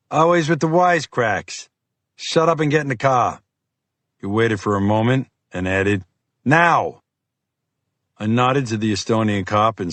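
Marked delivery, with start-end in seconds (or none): 0.1-3.4 gruff FBI agent. Acted. Fiore voiced by narrator. 6.4-7.0 a short, louder, higher barked "Now!"; sharp command. Acted. Fiore barks an order.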